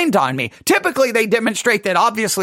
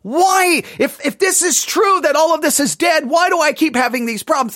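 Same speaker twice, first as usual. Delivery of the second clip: imagined puzzled believer; 6 semitones higher than usual. Retold or imitated. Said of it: "you're gonna be like".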